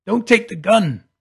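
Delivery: loud, high, startled yell; frantic shouted warning; sudden shout. A narrator's reading. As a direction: burst out with the warning. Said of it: "Luke shouted suddenly".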